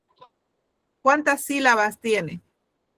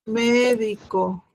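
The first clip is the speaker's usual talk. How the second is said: slow dictation; slower than usual. Shown as a demonstration. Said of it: "teacher repeats word slowly".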